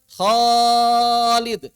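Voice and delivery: Khalid with a full thick long alif, said loud; heavy long alif. Shown as a demonstration. Teacher demonstrates to students, loud and heavy. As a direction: call out Khalid with the alif kept heavy after kho. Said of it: "Kalau kho kalau panjang".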